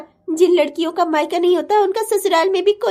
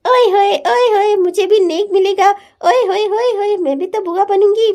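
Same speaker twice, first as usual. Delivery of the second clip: delighted cheering. Acted. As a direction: whoop it up teasingly. Sister delighted about becoming aunt.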